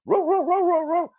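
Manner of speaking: high, loud yappy barks, imitating a dog; mock dog barking. Salesman-dog rushing at the sheep, mock barking. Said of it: "he rushes at the sheep barking".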